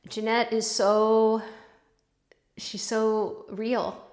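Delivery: real choked-up pauses, trailing to a whisper; slow down, moved almost to tears; teary-eyed. Real, not acted. Vlogger praising a fellow potter she loves, teary-eyed. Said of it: "I am getting teary-eyed".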